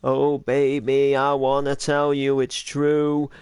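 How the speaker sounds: slow crooned line in a light character voice; Steve Wood's voice. Shown as a demonstration. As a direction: croon it slowly as Steve Wood. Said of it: "I practically do Steve Wood's voice and go".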